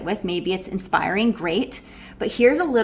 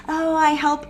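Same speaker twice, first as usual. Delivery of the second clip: hesitant, dreamy sales pitch; mock the vague healer who can't say it; slower than usual. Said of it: "what do you do?".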